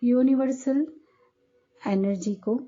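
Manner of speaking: calm meditation guide, long pauses between phrases; guided meditation. Acted. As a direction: guide them gently inward, unhurried. (ध्यान कराती शांत आवाज़, ठहर-ठहर कर)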